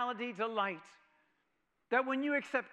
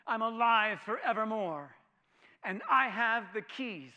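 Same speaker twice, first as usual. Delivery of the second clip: triumphant; 7 dB louder than usual. Acted. Voicing Jesus triumphant.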